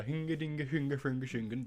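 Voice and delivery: a light hint of a muppet chef babbling fake Swedish; Swedish Chef gibberish. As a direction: toss off the chef's nonsense words lightly. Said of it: "the Swedish Chef character".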